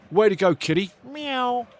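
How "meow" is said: a soft high meow; cat meow. Pretend. Streamer thanking a viewer's cat, soft high meow. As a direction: meow like the kitty woke you.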